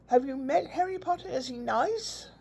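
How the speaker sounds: put-on high eager little boy's questions; imitating grandson's eager question; eager child. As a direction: ask like a wide-eyed kid.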